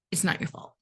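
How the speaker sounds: a soft whispered reassurance; gentle whisper. Real, not acted. Reassuring a betrayed spouse.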